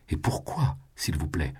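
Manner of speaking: a touch of cold anger; mild angry challenge. Acted. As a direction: demand it with restrained fury. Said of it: "les yeux étincelants de colère". (colère contenue)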